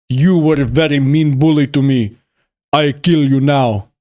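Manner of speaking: put-on Arnold-style Austrian accent, stretched words. Streamer voices grown-up kid threatening his bully, Austrian accent. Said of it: "why he developed an Austrian accent".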